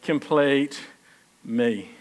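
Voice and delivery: a touch of tender Jerry; tender movie line. Retold or imitated. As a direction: say it like a heartfelt confession. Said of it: "Yeah, yeah, yeah".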